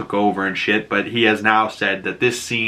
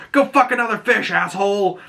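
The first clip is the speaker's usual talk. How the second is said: high, hammed-up jeering voice; mock insult; 9 semitones higher than usual. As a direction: sneer it at the king of fish.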